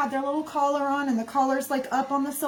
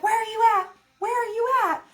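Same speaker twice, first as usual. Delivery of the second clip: sing-song high call to a pet; 10 semitones higher, faster than usual. Retold or imitated. Friend calling for her cat, retold to viewers in a high voice. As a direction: call out sweetly like hunting for a cat. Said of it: "She's like".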